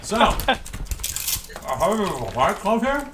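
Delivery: high, loud eager question; excited. Acted. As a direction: ask it bursting with excitement. Character asks excitedly in role.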